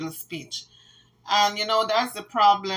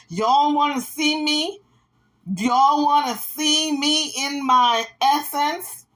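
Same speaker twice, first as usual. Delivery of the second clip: mock sultry quote; 5 semitones higher, slower than usual. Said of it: "She says".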